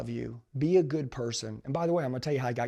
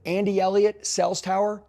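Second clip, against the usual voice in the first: raised, higher paging-style call; retold paging call; 5 semitones higher, 5 dB louder than usual. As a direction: call him in like a store announcement. Manager pages him to sales tower.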